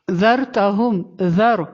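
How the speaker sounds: ذر with soft th as in "this" and heavy r; soft zaal, full ra. Shown as a demonstration. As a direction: say ذر gently on ذ, full on ر. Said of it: "ذال کو نرمی سے پڑھنا ہے". (ذر کا ذال نرم، را پُر)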